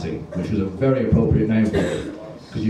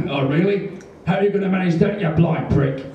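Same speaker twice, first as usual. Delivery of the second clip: higher-pitched scornful comeback; mocking challenge; 7 semitones higher than usual. Nosy man in front taunts blind man, mocking. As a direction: imitate a jeering cinema-goer. Heckler taunts him back.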